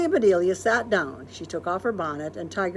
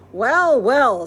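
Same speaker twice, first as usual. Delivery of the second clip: loud knowing "well, well"; a loud amused tease; mock-surprised neighbour; teasing; 5 semitones higher, 9 dB louder than usual. Mr Rogers teasing greeting.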